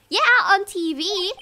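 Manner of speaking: high, loud emphatic reply; excited girl voice. Acted. Maya answering Nick on the phone, excited. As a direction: say it keyed-up and insistent. First take in Maya's voice.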